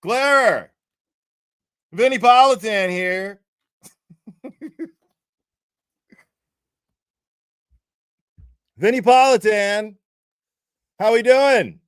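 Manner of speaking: loud, high booming TV host; mock TV host calling with big loud voice; Vinny Politan. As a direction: boom it out like a TV anchor. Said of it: "Vinny will be like".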